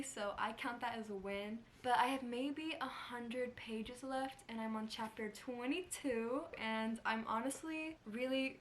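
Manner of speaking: talking with a retainer in; slight lisp on s sounds. Real, not acted. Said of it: "please ignore the lisp".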